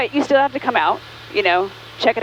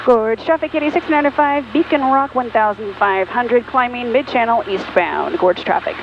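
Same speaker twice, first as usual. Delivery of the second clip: radio call; 2 semitones higher than usual. Real, not acted. Pilot radio position call.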